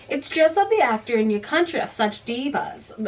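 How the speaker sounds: a light attempt at a British accent for Rupert; Rupert's British accent. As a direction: try a posh British director's accent, a bit unsure. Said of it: "I don't think I have the right accent".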